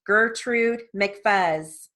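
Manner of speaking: Gertrude McFuzz drawn out slowly, even stress; slow controlled reading. Shown as a demonstration. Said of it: "I'll read this at one twenty".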